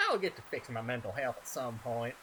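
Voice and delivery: put-on light, accidental southern accent. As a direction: slip casually into a southern accent. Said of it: "Why am I doing a southern accent?".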